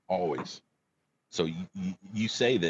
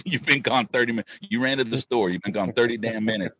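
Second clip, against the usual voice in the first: self-mocking; 5 semitones higher, 3 dB louder than usual. Real, not acted. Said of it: "you're stupid right now for getting teary".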